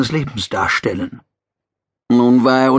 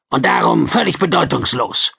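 gruff lizard voice. Acted. Gil Quan dismissive.

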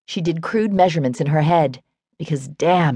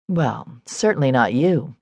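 grumbling; 2 semitones lower, slower than usual. Acted. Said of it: "she grumbled".

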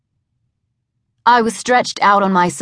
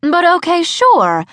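meek giving in; 10 semitones higher, 3 dB louder than usual. A narrator's reading. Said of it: "lily-livered words".

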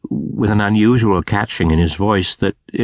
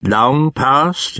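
inquiring; 5 semitones higher than usual. A narrator's reading. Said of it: "inquired Scrooge".

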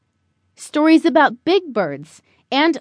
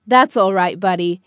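lightly voiced father, lower pitch; reassuring father; 7 semitones lower than usual. Father to Buddy after a flop, mildly reassuring.

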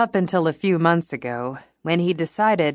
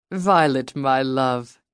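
put-on British accent; 2 semitones lower, slower than usual. Speaking in a British accent.

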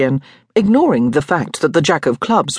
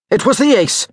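sharp impatient retort, pitched higher; snapping; 5 semitones higher than usual. A narrator's reading. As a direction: cut him off curtly. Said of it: "Hugh snapped".

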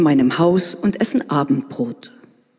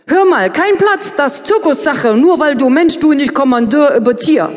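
high, loud, broken foreigner German; broken beginner Russian; 8 semitones higher, 5 dB louder than usual. Acted. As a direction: blurt it out in clumsy broken speech. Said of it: "Herauskommt aber in Russisch wohl ungefähr".

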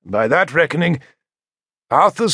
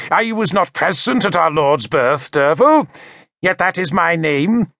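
sneering; 6 semitones higher than usual. A narrator's reading. Mocking bishop grips narrator's hair.

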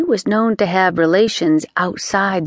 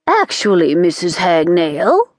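haughtily. Acted. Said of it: "said haughtily".

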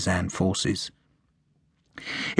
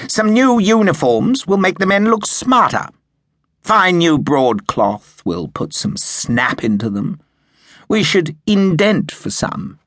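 much higher, louder eager officer voice; enthusiastic yapping; 9 semitones higher, 4 dB louder than usual. A narrator's reading. Slingsby pesters Sharp about uniforms, in an eager yapping voice. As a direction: yap it like an overkeen young lieutenant. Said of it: "he had yapped enthusiastically".

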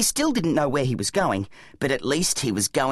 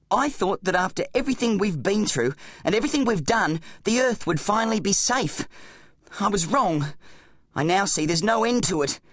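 somewhat raised, fed-up voice; Zack, despairing boy hero; 4 semitones higher than usual. Acted. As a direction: give up in exasperated despair.

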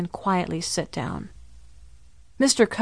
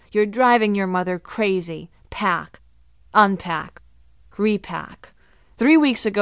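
mock-stern lecture to herself in the mirror; playing a stern grown-up scolding herself. Girl scolds herself in the mirror in a mock grown-up voice. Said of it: "in my most grown-up voice".

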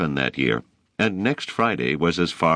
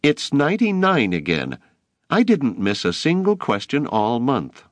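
indignant protest; 9 semitones higher than usual. A narrator's reading. Boy protesting his grade.

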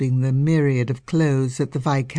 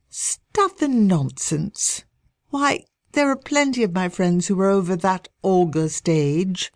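scornful disbelief. Acted. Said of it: "snorted, disbelief".

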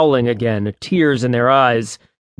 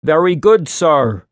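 a lightly voiced stuffy butler; a hint of a stuffy butler voice; stuffy manservant; 3 semitones higher, 4 dB louder than usual. A narrator's reading. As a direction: play the pompous manservant, then crack. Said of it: "in a stuffy voice that bubbled into a giggle".

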